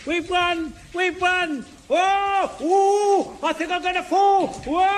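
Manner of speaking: high excited cries; cheer, then panic about falling; excited shouting. Acted.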